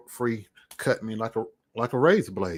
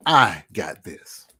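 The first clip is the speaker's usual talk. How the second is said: slow, lower, louder and solemn; slow solemn God voice; 4 semitones lower, 5 dB louder, much slower than usual. Retold or imitated. A man quoting God's promise to viewers, slow and solemn. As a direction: intone it like a divine promise. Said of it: "He said".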